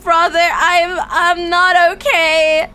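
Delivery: slow, near tears; upset plea. Retold or imitated. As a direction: admit you are not okay, slowly. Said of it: "I was not okay".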